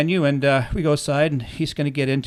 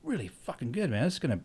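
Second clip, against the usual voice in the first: whisper-close amazement at the mixes; a lightly voiced hushed "wow"; hushed awe; 3 semitones higher, 7 dB quieter than usual. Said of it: "I was like".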